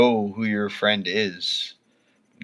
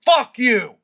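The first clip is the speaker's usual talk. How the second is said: much higher, louder furious yell; furious shout; 11 semitones higher, 6 dB louder than usual. Real, not acted. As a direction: scream it at the viewer. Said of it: "You really got me mad now".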